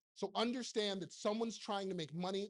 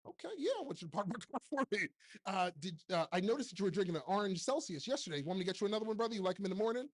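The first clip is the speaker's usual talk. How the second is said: sarcastic mock; faster than usual. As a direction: play along mockingly with the eager helper. Sarcastic reply to PA.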